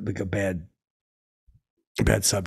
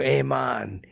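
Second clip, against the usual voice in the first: drawn-out, higher-pitched greeting; stretched-out hail; attention-getting call; 3 semitones higher, much slower than usual. Retold or imitated. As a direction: announce yourself to get his attention. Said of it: "like, I get his attention".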